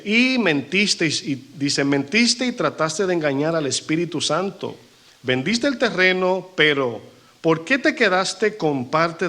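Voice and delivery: preacher hammering each word; fiery scripture reading. Acted. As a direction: confront Ananías from the pulpit. Pastor reads Peter confronting Ananías.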